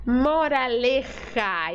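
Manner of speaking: slow, with a hissing catlike j in Moraleja; cat hiss on the j; angry cat sound. Shown as a demonstration. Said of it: "Esse som do gato bravo".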